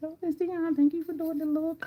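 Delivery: high, put-on small child's voice. Retelling what a commenter's granddaughter said, imitating a granddaughter's voice. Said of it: "I don't know why I'm saying it like that".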